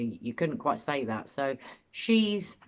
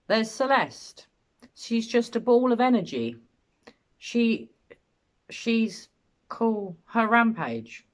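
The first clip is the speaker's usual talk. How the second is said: raised, slow reading of a dismissive father; reading his words with contempt; 6 semitones higher, 3 dB louder, slower than usual. Retold or imitated. Host reading the father's interview words, mildly contemptuous. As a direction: read the quote with a sneer of contempt. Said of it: "you can hear contempt in his voice".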